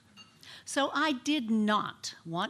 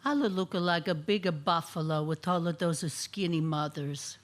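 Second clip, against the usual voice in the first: mildly voiced wounded immigrant mom; disappointed mother; 3 semitones lower than usual. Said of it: "couldn't hide the disappointment in her voice".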